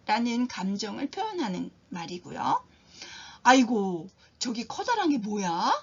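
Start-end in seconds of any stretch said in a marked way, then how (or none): 3.4-5.7 sudden loud startled cry, then a question. Shown as a demonstration. Teacher acting out being startled by something big. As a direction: jump at something huge over there. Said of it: "이렇게 놀랐을 때".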